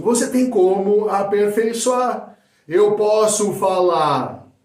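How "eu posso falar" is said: loud, high, drawn-out projection; loud delivery. Shown as a demonstration. Coach showing one way of saying a phrase, loudly. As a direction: project it big and slow. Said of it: "dependendo de como você fala".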